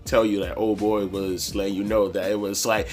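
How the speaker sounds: low, soft attempt to reason; placating. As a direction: talk someone down, quietly and low. His placating replies to her.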